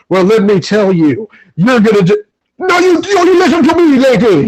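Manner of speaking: loosely mimicking a film character's Jamaican accent. Retelling the movie scene to his co-host, in a mock Jamaican accent. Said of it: "drops into the Jamaican accent".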